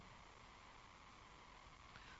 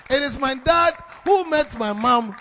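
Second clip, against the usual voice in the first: slow, much louder, stress on who; preacher driving home the point, shouting; preaching shout; 4 semitones higher, 11 dB louder than usual. Real, not acted. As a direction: shout it to the congregation.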